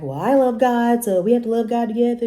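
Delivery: put-on high, sing-song naive girlfriend voice; lightly mocked naive girlfriend; mocking naive girlfriend. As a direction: imitate a well-meaning but clueless girl. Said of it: "then you just like".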